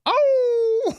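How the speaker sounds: a sudden high yelp of surprise, tipping into a laugh; surprised oh. Real, not acted. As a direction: caught off guard, squeal it out.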